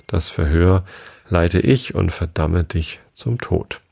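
slow, measured rhyme reading with pauses; verse recitation. A narrator's reading. Mouse recites its rhymed tale to the listeners, measured verse. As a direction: recite it line by line, deliberately.

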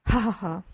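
spoken-out ha-ha-ha laugh; splendid laugh. A narrator's reading. Scrooge laughs after long disuse, hearty ha-ha. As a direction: laugh it out in separate beats. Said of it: "war dies wirklich ein ganz prächtiges Lachen".

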